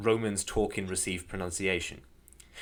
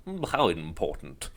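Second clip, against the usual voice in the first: malevolent treant; 4 semitones lower than usual. Retold or imitated. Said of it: "and he was like".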